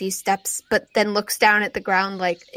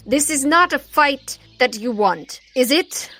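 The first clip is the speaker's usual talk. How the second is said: smug threat; 5 semitones higher than usual. Acted. Ravana to the party, smug high threat. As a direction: threaten politely with a smile.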